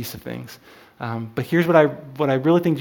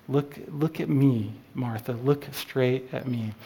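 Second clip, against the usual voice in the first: tender plea. Acted. Jesus urging Martha, slowed down.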